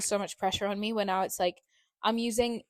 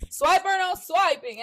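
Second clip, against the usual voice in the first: cartoon voice; 9 semitones higher, 4 dB louder, slower than usual. Parodying Swiper, no swiping.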